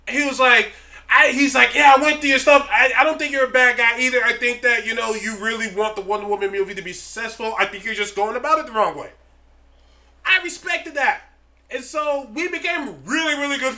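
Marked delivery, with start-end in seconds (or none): 1.7-9.1 kind. Retold or imitated. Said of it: "killing me with kindness".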